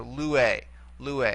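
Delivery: "lue" with the accent on its first syllable, lu; accent brought back. Shown as a demonstration. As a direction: stress LU in "lue", leaving the ending light. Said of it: "bring it back to the".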